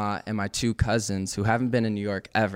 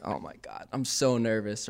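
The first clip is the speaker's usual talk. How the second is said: whispered, nervous aside; 6 dB quieter than usual. Retold or imitated. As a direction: breathe it out nervously under your breath. Nervous aside during scene.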